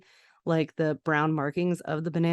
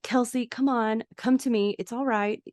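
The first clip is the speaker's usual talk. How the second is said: lightly acted, higher-pitched coaxing; 5 semitones higher than usual. Cool mom to Kelsey in the pool, coaxing. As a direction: gently talk someone round, pitched up a bit.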